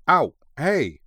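loud, high yelp of pretended hurt; mock protest. A narrator's reading. Husband swatted by his wife, mock protesting. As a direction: protest as if cowering. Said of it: "Masato protested, pretending to cower".

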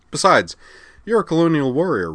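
high, loud chipper voice; bright teasing Lucy. Acted. Lucy cheerfully tells Kozue he'll never see her again, bright and high.

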